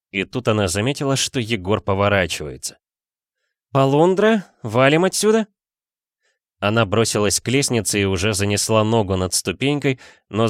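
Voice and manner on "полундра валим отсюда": excited shout. A narrator's reading. Drunk Dasha flees.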